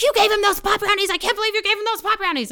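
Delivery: high, incredulous mom impersonation; appalled mother. Retold or imitated. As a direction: act out a scandalised mother. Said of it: "And my mother's like".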